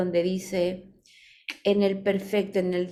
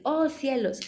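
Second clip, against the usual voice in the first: higher-pitched exclaimed "oh, cielos"; exclamation; 5 semitones higher, slower than usual. Shown as a demonstration. Teacher giving students examples of exclamations, exclaimed. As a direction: exclaim it as a sample phrase. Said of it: "hay muchas exclamaciones".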